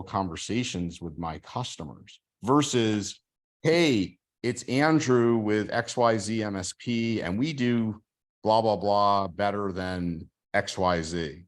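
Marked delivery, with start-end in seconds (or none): 3.6-11.4 mock-cheerful cold call, drawn out; sarcastic sales pitch. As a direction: parody a generic salesman's opener. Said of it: "I'm being a little sarcastic".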